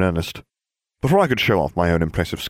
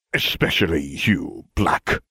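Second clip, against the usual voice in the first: dying curse; slower than usual. Acted. Voices dying Severus.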